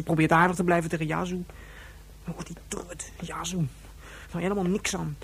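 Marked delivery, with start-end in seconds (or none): 2.2-3.7 pitying whisper. Acted. Pitying grieving Yazoo to herself.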